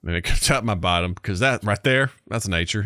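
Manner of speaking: put-on folksy country American accent; Andy America accent. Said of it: "that's enough of that for now".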